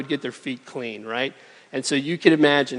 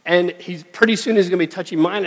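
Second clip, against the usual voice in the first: anxious inner voice; 4 semitones higher than usual. Retold or imitated. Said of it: "he's thinking".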